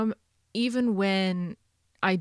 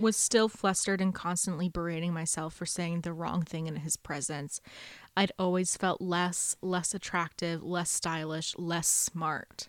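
reading aloud; 2 semitones lower, 4 dB quieter than usual. Acted. Reading the heroine's self-doubt from a novel, read-aloud voice. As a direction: read the passage out, softening toward the end. Reads passage from the book.

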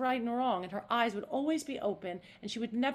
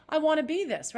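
much higher, louder, eager Cockney; open Eliza; 8 semitones higher, 7 dB louder than usual. Shown as a demonstration. Actress demoing Eliza's eager want, bright Cockney. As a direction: reach for it wide open. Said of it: "She's just".

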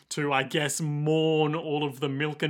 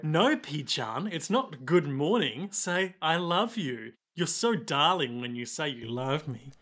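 tender pet talk; 5 dB quieter than usual. Acted. Gwess teaching bird to talk.

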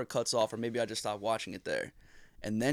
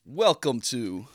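loud, slow podcast welcome; drawn-out host intro; mock-grand show intro; 5 dB louder, slower than usual. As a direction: announce the show slowly, with big pauses.

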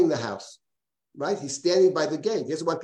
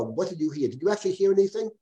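quick, higher, pressing question; eager questioning; 4 semitones higher than usual. Retold or imitated. Eliyahu pressing Rabbi Yossi about what he heard, eager and fast.

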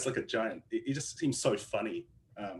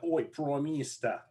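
slow, drawn-out mock Aussie call, pitched up; half-voiced holler, softer and higher; retold holler; 4 semitones higher, 5 dB quieter, slower than usual. Cartoon MP calling over the fence, mock holler. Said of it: "looks over the fence like".

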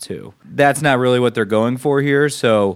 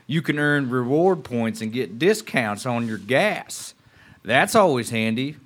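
put-on Southern accent; 4 semitones higher than usual. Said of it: "good Southern accent".

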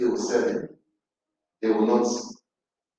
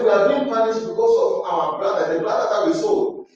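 guilty lament; 6 semitones higher than usual. Acted. Brothers confess guilt, voiced high.

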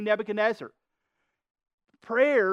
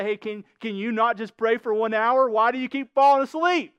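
mildly exasperated, louder retold reproach; exasperated rebuke; 2 semitones higher, 6 dB louder than usual. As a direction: chide sleepy friends, voice climbing at the end. Acting out Jesus rebuking sleepy disciples.

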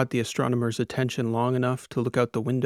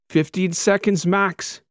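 higher, slow urgent call; shouted back; 7 semitones higher, 4 dB louder, slower than usual. A narrator's reading. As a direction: astronomer warning the captain. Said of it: "the astronomer shouted back".

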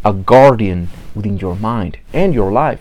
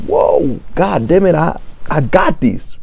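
pumped-up excitement; 6 semitones higher, slower than usual. Retold or imitated. Friend's praise pumping you up.

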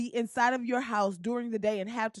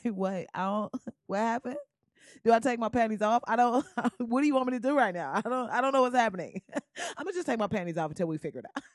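flustered laughing; faster than usual. Pretend. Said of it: "You be like".

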